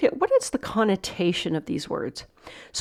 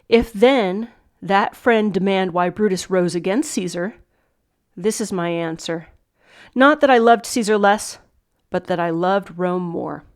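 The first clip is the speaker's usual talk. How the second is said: Shakespeare speech read aloud; 4 dB louder than usual. Acted. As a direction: declaim it lightly, phrase by phrase.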